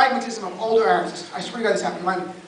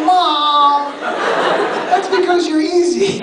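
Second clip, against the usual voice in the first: snappy comeback; 5 semitones higher, 4 dB louder, much slower than usual. Retold or imitated. Son retorting to mom.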